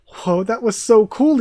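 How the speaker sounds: high, loud burst of delight; excited cheer. Acted. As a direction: cheer like a thrilled kid. Character cheering after lightning blast.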